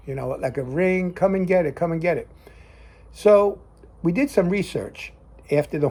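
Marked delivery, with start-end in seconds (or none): 1.1-2.3 lightly imitated dinner call, a bit raised; a quick, half-voiced call to come and eat; cowboy-film dinner call. Showing the cowboy-film dinner bell, light calling imitation. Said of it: "like years ago in your cowboy films".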